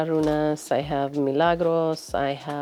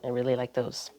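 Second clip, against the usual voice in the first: soft unvoiced whisper; 5 semitones lower, 8 dB quieter, faster than usual. Real, not acted. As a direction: drop to a whisper mid-sentence. Quiet aside while showing shelf.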